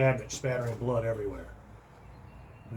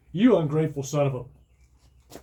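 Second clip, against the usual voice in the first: loud, slow angry curse; 3 semitones higher, 5 dB louder than usual. A narrator's reading. Owner cursing the cat as it sulks away, slow angry curse. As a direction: spit the insult at the cat.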